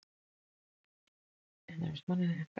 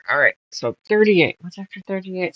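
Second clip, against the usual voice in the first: talking around a pin held in the lips; pin in mouth; 11 dB louder than usual. Real, not acted. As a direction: speak with a pin between your lips. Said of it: "Sorry, I have a pin in my mouth".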